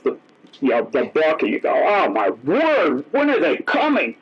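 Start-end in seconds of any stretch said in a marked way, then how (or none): 1.7-4.2 slow, drawn-out start that jumps high; hammed-up impatient wonder; mock surprise. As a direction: act startled at the time. Imitating impatient reader noticing time.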